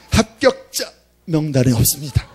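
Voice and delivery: lightly mimicked recorded ARS announcement, rising on 합격자; a hint of a robotic hotline voice; automated phone voice. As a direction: read it out like a flat machine message saying 합격자 명단에 없습니다. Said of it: "이렇게".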